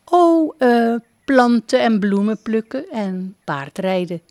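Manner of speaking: a lightly voiced young princess, eager. A narrator's reading. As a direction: raise the voice a little, bright and eager princess. (prinses die enthousiast vertelt over haar hobby's)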